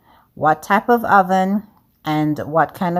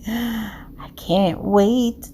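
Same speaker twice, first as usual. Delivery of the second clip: breathless excitement; 5 semitones higher, much slower than usual. Real, not acted. About to flip the cake.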